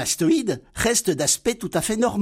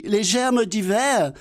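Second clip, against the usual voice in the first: higher, slow puzzled naive voice on "les germes d'hiver"; Laurel mishearing; 4 semitones higher, slower than usual. Acted. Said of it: "Dialogue imaginaire entre Laurel et Hardy". (Laurel répète lentement « les germes d'hiver », voix aiguë et naïve)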